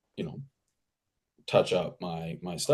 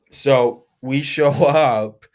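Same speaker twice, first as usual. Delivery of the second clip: laughing through it; 3 semitones higher, 7 dB louder, much slower than usual. Real, not acted. Laughs mid-line telling the story.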